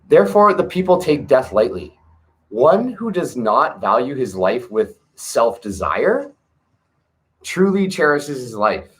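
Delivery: scripture reading. Acted. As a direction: read each line like sacred text, with pauses. Reads scripture aloud.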